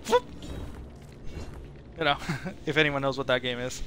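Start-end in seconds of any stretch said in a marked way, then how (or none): 0.1-0.2 imitated whoop. Shown as a demonstration. Imitates a whoosh noise.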